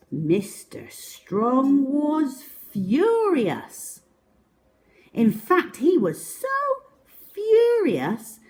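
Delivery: storyteller building to furious; building fury. A narrator's reading. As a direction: climb the pitch as he gets angrier. Narrator building Mister Strong's fury.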